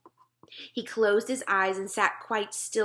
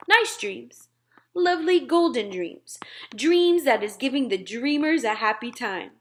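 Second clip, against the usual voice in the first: a hint of a big giant, louder; gentle giant grumbling, a touch louder; lightly voiced BFG; 5 dB louder than usual. Giant teasing nosy Sophie, lightly voiced grumble. BFG describing his dreams.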